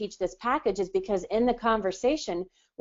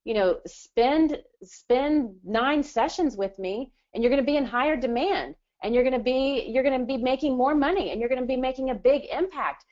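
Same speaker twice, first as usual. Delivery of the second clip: sales pitch to client; 4 semitones higher than usual. Retold or imitated. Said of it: "and you can say".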